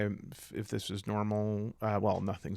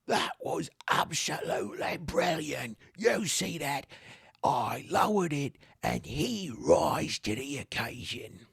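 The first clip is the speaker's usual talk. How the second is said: high accented put-on voice; delighted trainer; 5 semitones higher than usual. Trainer praising the trainee who rose to it, delighted. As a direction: gush proudly in a raised voice.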